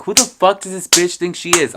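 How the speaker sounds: loud, high-pitched acted outrage; indignant inner rant. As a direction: rant in disbelief at a rude customer. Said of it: "in my head, I was like".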